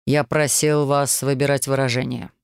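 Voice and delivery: cold, level warning; icy tone. Acted. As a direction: chill every word. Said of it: "ледяным тоном напомнил Аксель". (ледяным тоном, сдержанно)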